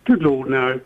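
slightly slurry, as if tipsy; slurred speech. Real, not acted. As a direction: let the words run loosely into each other. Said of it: "You're very slurry today".

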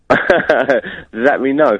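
slow words through laughter; laughing. Real, not acted. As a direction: laugh while asking. Laughing at the host.

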